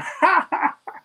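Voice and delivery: high, real laughter bursting out; can't stop laughing mid-rap; laughing crazy. Retold or imitated. Rapper retelling laughing onstage at his friend, bursting laughter. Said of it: "I just start laughing crazy".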